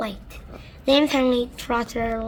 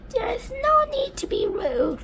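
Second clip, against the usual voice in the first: coldly. Acted. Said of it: "she said coldly".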